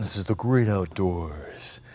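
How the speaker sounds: low, slow ad announcer voice; drawn-out, mock-epic voice-over; dramatic commercial voice. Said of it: "you got this big dramatic voice".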